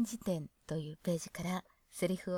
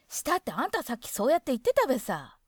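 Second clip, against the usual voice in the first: light Hokkaido dialect quote, a bit louder; Hokkaido woman's phrasing; 4 semitones higher, 5 dB louder than usual. Shown as a demonstration. Showing how women use besa, light Hokkaido dialect. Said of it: "などと言います".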